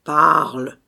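loud, drawn-out growling command; through gritted teeth. A narrator's reading. Phantom answers his brother, loudly through gritted teeth. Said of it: "dit le fantôme en grinçant des dents".

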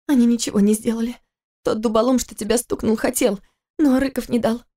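высокий женский голос, мягко возражает; жена успокаивает мужа; жена оправдывает. Acted. Голос Киры. (высоко, мягко)

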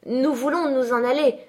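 demande plus aiguë et plus forte, désespérée; insistance désespérée. A narrator's reading. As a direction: insister de toutes ses forces, voix haute et aiguë. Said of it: "répétait-elle en faisant des efforts désespérés". (supplication énergique et désespérée)

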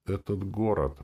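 ordinary delivery, nothing marked

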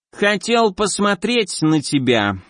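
a monster speaking through slime; squelching creature voice. Acted. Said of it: "чавкающим голосом".

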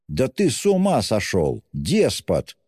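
high-pitched roar of outrage; acted indignant roar, voice swooping up. A narrator's reading. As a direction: bellow at a tyrant, hammed-up fury. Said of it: "заревел Разумихин".

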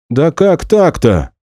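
high, loud, slow outraged cry; indignant. Acted. Max, outraged that the band is breaking up, cries out. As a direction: protest loudly at the unfairness. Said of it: "вот теперь уже возмущался Максим".

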